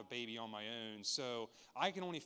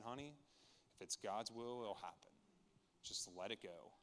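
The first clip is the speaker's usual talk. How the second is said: softer, gently calm reassurance; lightly voiced calm wife soothing her husband; 3 semitones lower, 7 dB quieter than usual. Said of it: "was cool, calm, and collective and said".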